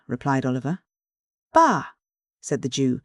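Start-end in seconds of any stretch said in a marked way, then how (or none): 1.5-1.9 high, sharp disgusted bah; disappointed scoff. A narrator's reading. Fagin scoffs when Oliver shows no curiosity, disgusted. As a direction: spit it out, let down by the boy. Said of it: "with a disappointed countenance".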